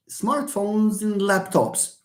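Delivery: and shrunk to just n, slowly linking smartphones and laptops; reduced and. Shown as a demonstration. Teacher showing weak form in a phrase, and reduced to n. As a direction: glide slowly through, and becoming a bare n. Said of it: "It becomes just n".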